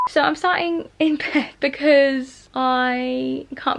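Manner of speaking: slow, drawn-out rambling with a laugh; speaking really slowly. Real, not acted. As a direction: take your time, stretch the words. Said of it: "I'm speaking really slowly".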